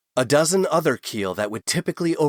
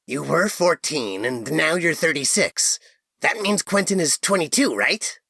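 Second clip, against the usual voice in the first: eager; 5 semitones higher than usual. A narrator's reading.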